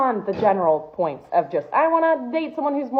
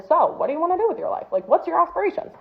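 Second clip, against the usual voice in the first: mocking a date; 8 semitones higher, faster than usual. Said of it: "and he was like".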